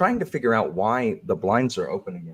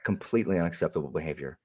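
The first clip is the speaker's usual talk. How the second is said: prim moderator voice; 3 semitones higher, faster than usual. Pretend. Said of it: "if this is the new Alan".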